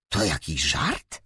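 slow, low suspicious question. A narrator's reading. Brother doubts his sister's monster story, suspicious. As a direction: ask as if you suspect a trick. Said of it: "spytał podejrzliwie Seth".

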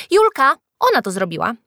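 high, loud telltale accusation; tattling. A narrator's reading. Freckled boy blames Julka to teacher, tattling. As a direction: tell on her loudly. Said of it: "naskarżył piegowaty chłopak".

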